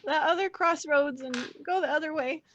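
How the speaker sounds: put-on high, squeaky, dithering boy voice; flustered young guide. Roger sending the party back, flustered high voice. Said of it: "Roger kinda continues on this course of action".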